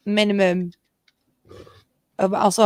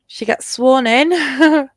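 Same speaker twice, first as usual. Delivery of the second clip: coroner's voice; 6 semitones higher, 4 dB louder, much slower than usual. Acted. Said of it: "coroner's voice".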